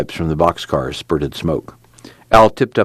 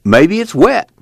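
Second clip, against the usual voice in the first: higher, louder whiny Al; 14 semitones higher, 5 dB louder than usual. A narrator's reading. Al voiced high.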